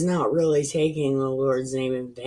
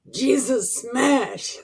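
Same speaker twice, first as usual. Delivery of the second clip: mock Hulk catchphrase; 8 semitones higher, slower than usual.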